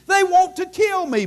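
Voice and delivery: climbing Paul quote. Retold or imitated. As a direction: push the repeat up a step.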